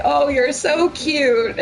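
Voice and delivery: slow, laughing coo; older journalists fawning over her; cooing elders. Retold or imitated. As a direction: coo at her like a little sister. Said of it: "they were all like".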